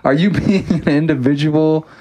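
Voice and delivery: high, sneering mock bandmate, slowing at the end; sarcastic mock punk bandleader. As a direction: parody a preachy punk band boss. Mocking band firing member.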